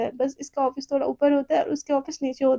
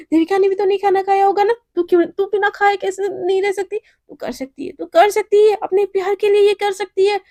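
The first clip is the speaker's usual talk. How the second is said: high, fast pep talk to herself; self pep talk; 5 semitones higher than usual. Acted. Girl urging herself to keep fasting, high pep talk. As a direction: psych yourself up.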